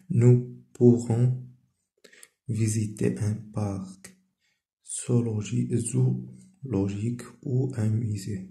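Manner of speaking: very slow, word by word, like a dictation; slow dictation reading. Shown as a demonstration. Teacher reading a French example to pupils, slow dictation. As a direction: read it so pupils can copy along.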